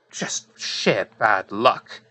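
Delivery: slow dramatic whisper. A narrator's reading. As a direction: whisper it slowly, for suspense. GM narrating a failed roll.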